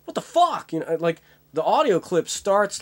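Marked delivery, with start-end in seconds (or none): 0.1-0.7 high, outraged mock yell; imitating an actor losing it; mock outburst. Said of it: "maybe Christian is like".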